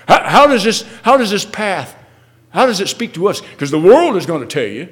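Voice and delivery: impassioned preaching. Real, not acted. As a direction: press the congregation with loud, ringing questions. Preacher presses the congregation.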